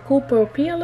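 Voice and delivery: slow, careful English-accented brand name. Real, not acted. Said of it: "avec mon bel accent anglais". (nom de marque prononcé lentement avec un accent anglais)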